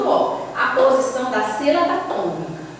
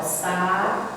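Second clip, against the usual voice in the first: SAÚDE split slowly into sa, ú, de; syllable by syllable; 6 semitones lower, 5 dB quieter than usual. Shown as a demonstration. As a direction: say saúde in three low, separated beats with pauses. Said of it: "Ela vai ficar separada".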